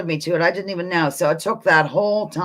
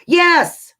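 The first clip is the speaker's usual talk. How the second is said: excited; 8 semitones higher than usual. Real, not acted. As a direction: burst out excitedly as the answer arrives. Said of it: "I got all excited about it".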